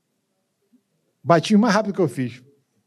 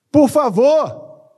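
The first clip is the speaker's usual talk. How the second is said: much higher, louder and drawn out slowly; long loud high "Por favor", each syllable stretched; pleading cry; 10 semitones higher, 6 dB louder, much slower than usual. Acted. Pleads with the congregation.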